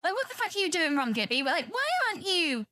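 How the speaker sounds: lightly voiced fangirl; mock fangirling. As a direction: play the breathless fan, lightly. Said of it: "and I'm there fangirling".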